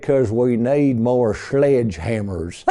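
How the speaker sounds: put-on slow German accent through a southern drawl; imitated German accent. Framer mimicking the German tech, drawled German accent. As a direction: attempt a German accent, drawn out and deliberate. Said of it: "imitate a German accent".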